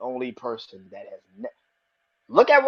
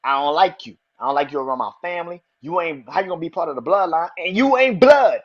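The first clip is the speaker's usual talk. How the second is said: heated rant; 6 dB louder than usual. Retold or imitated. Jay telling off Sammy on the mic, heated rant. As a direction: tear into him, then lean hard on blood. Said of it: "and he's just going in".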